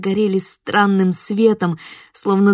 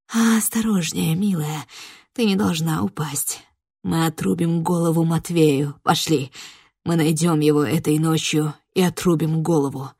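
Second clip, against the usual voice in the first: sinister tender voice; 3 semitones lower than usual. Acted. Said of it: "жуткое звучало в этих ласковых нотах".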